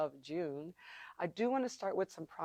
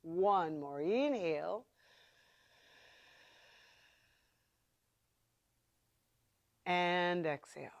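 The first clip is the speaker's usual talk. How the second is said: Ujjayi breath; 4 dB quieter than usual. Shown as a demonstration. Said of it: "That's Ujjayi breath, ... the noisy, throated breathing".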